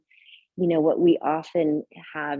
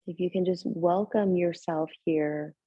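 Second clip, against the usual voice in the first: gentle meditation guidance with long pauses; unhurried, settled yoga-teacher voice, leaving space between phrases; guided meditation. Real, not acted. Leads a seated breathing meditation.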